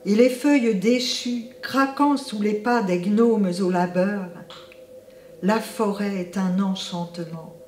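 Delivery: measured, unhurried verse reading; poetry recitation. Acted. Artist presents an autumn poem on Dame Nature, measured poetic recitation. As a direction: recite line by line, leaving pauses between images.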